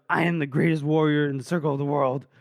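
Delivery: stated as plain fact, no boast; even, unshowy declaration; matter-of-fact. Retold or imitated. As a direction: make a huge claim without boasting. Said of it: "He just says it as it's a fact".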